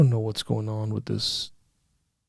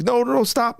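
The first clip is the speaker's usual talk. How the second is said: high-pitched, hurried mock panic; imitated frantic pleading; 10 semitones higher than usual. Dad stopping his daughter's pomegranate tantrum, imitated frantic. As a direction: try to halt a meltdown, retold lightly.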